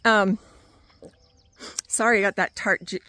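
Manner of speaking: talking around a cherry; mouth full. Real, not acted. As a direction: talk with fruit in your mouth. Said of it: "cherry in my mouth and now I can't talk".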